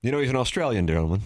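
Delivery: quick line in a put-on British accent; mock British accent. Host teasing about a DJ, in a mock British accent. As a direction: toss it off in a jokey British accent. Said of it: "why you had to say it in the British accent".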